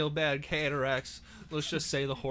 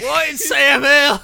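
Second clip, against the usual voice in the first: put-on high, loud, slow old-timer cry; hollered like a startled old coot; old prospector; 10 semitones higher, 16 dB louder, slower than usual. Old-timer exclamation bit.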